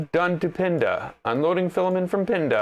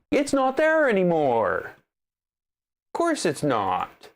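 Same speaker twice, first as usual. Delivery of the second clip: higher, then a slow drawn-out sarcastic jab; mock the printer with heavy sarcasm; 3 semitones higher than usual. Real, not acted. Sarcastic at the vanished screen reading, slowing down at the end. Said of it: "my sarcasm is going too far".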